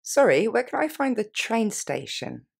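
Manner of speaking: slow model phrase to repeat; slowly. Shown as a demonstration. Teacher giving learners time to repeat after her. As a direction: leave each word clear and unhurried. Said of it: "On les reprend lentement".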